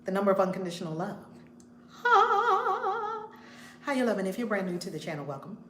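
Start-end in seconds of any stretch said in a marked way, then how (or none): 1.9-3.3 long high-pitched "haaa" on one note; high held "ha". Real, not acted. Host opening her show, high held ha. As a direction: hold out a high, loud ha. Held exclamation between greetings.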